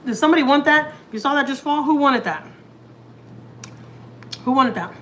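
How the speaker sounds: loud, high startled call to whoever grabbed it; surprised call out. Real, not acted. Cook calls out to the pets after the meat falls, loud and surprised.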